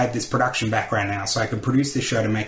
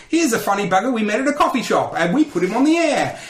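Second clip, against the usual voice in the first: high-pitched, hyped-up retold announcement; mock enthusiasm; 9 semitones higher than usual. Station staff present a random contest find, mock enthusiasm. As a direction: mimic someone proudly presenting their find.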